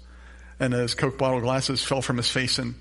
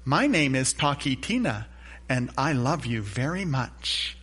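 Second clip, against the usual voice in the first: robotic doll voice. Retold or imitated. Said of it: "she would robotically say".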